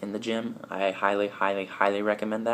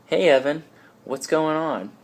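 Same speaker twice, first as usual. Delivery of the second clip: a lightly voiced gym buddy, higher and louder; casual greeting; 7 semitones higher, 6 dB louder than usual. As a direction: greet him like a pumped-up gym friend. A gym-goer greets Evan.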